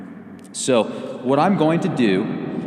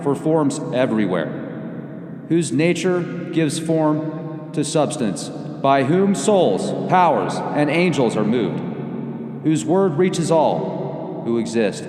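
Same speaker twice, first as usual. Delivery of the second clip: solemn prayer. Acted. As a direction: intone it like a devout invocation.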